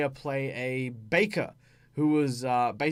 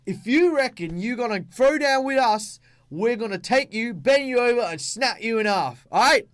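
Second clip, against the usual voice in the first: loud, high, rough broken-English threat; street boxer barbarian; 7 semitones higher, 5 dB louder than usual. Acted. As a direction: square up like a street brawler. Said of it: "and he's like".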